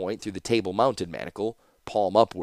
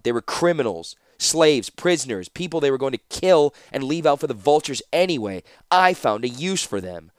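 lightly voiced captor defending herself; a hint of an insistent, unrepentant captor; defiant Ashnod; 5 semitones higher, 3 dB louder than usual. Captor justifies her deeds to the prisoner, lightly insistent. Character dialogue in narration.

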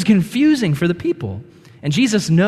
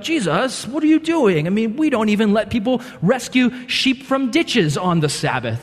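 higher pitched mock outrage at Jesus; indignant Pharisee; 4 semitones higher than usual. Pharisees challenge Jesus about healing on the Sabbath, higher and scandalized. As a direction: play the appalled rule keeper.

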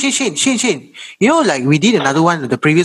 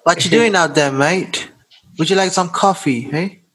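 mock Australian accent; 3 semitones higher than usual. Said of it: "you were trying to make an Australian accent".

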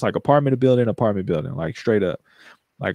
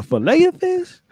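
mock wonder; 3 dB louder than usual. Mock awe at fish species.

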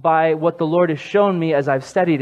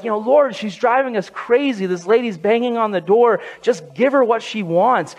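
fed-up disciples, higher pitch; exasperated complaint; 5 semitones higher than usual. Acted. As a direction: act out a mildly exasperated plea to the boss.

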